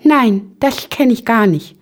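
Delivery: high, squeaky puzzlement; bewildered little chirp; confused. A narrator's reading. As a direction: deny it in a small baffled voice. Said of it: "sagte Ping-Pong verwirrt".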